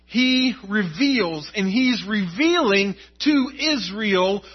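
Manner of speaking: proclaiming to a congregation with conviction; emphatic preaching. Real, not acted. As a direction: preach it with punched key words. Preaches with rising force.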